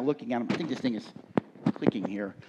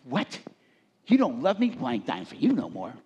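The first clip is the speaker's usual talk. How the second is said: lightly voiced petulant God, offended then huffy; mock pouting deity withdrawing his gift; mock sulking God. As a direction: play God as a hurt bargainer, half-joking. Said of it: "it would look like this".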